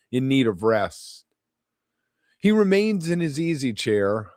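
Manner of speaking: measured poem recital, each phrase falling away at its end; poetry reading. Acted. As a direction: read your poem aloud, phrase by phrase. Reads own poem aloud.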